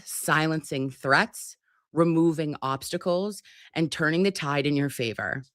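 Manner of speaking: steady, earnest devotional read; prayer reading. Acted. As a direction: read God's words with calm conviction. Reads the daily prayer.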